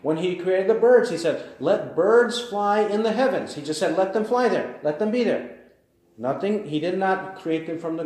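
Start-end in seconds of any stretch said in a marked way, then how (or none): 1.6-5.6 higher, ringing divine decree; a preacher voicing God's command. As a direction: announce it like a royal decree.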